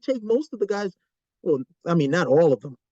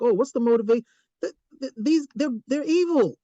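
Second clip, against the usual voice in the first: a hint of a mocking fan, voice pitched up; 2 semitones higher than usual. Mocking fans of sympathetic villains, lightly put-on voice. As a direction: parody the confused viewer. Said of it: "We're like".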